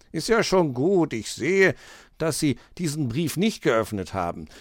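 a hint of calming in the fox voice; soothing. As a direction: settle her down gently. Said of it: "beruhigte sie der Fuchs".

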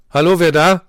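lightly voiced husky on the phone; gruff answer. A narrator's reading. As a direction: pick up the phone brusquely.

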